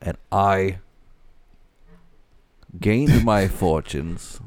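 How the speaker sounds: lightly voiced oilman telling his own story; measured first-person oilman impression; a hint of an old-time oil baron's oratory; Daniel Plainview voice. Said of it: "can you do his voice again?".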